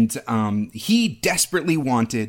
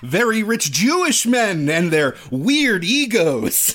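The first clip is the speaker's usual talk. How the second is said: hint of a spooky storyteller; mock grim tale-teller, lightly voiced; horror host. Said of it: "let me tell my twisted tale of woe".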